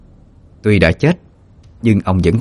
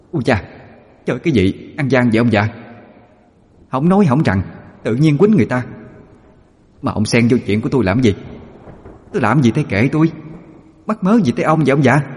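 whining ghost; 6 semitones higher than usual. A narrator's reading. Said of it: "nhăn nhăn nói".

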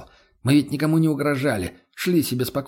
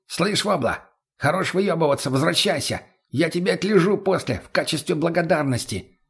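Mutny's voice; 5 semitones higher than usual. Acted. Junkie Mutny voiced, calling out.

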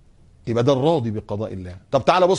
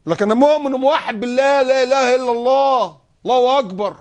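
sarcastic mock piety; 11 semitones higher, 6 dB louder than usual.

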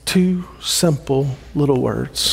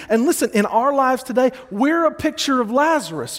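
preaching at full force, pitched high; 8 semitones higher than usual. Acted. Pastor urging the church, preaching with rising force. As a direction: drive the point home to the congregation.

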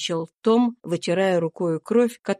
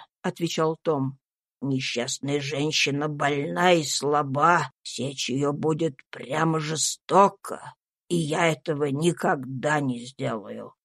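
a meek voice, much lower and softer, resolute; soft but firm; 6 semitones lower, 4 dB quieter than usual. A narrator's reading. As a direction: quietly refuse to the death. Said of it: "Том говорил мягким голосом, но так решительно". (мягко, но решительно, тише)

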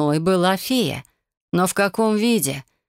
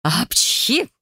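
a high, sudden theatrical sneeze; fairy's loud sneeze in the cramped closet; 6 semitones higher than usual. Acted. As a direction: burst out with a comic sneeze. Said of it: "фея в очередной раз громко чихнула".

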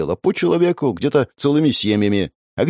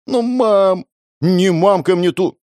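put-on much higher, slow kid's whine; whiny child; 10 semitones higher, 4 dB louder, slower than usual. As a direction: whine back like a cranky child. Child whining back. (высоким детским нытьём)

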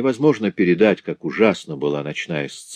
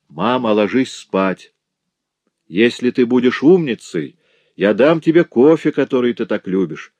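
put-on coaxing a child; 5 semitones higher, 4 dB louder than usual. A narrator's reading. Daughter coaxes her mother.

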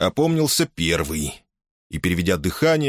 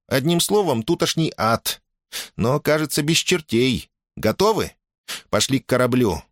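put-on high-pitched girl briefing the group; businesslike girl; 7 semitones higher than usual. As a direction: take charge and explain briskly.

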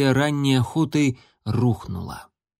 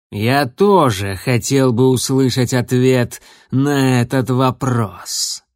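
slow, somewhat louder, threatening voice; menacing bass; 3 dB louder than usual. Acted. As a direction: loom over them with each word. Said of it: "низкий, угрожающий бас".

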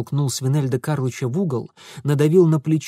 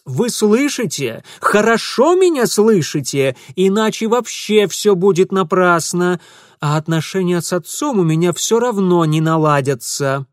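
louder pointed statement; raised voice; 5 semitones higher, 6 dB louder than usual. Acted. Mitya raising his voice for the hidden man. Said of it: "возвысил голос".

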